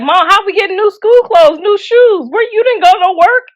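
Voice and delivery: put-on high-pitched questioning child; kid voice. Kids asking mom about new clothes, high kid voice. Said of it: "kids be like".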